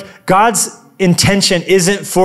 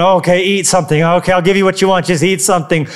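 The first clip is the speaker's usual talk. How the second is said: mock giving in; faster than usual. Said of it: "God's up there going".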